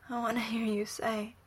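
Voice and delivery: soft breathy plea; whispered. Acted. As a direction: whisper it close. Intimate plea.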